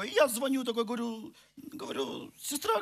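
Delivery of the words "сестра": high pleading call to a sister. Retold or imitated. Stuck in the snow, phoning a sister for help, high plea. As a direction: call out high, half begging.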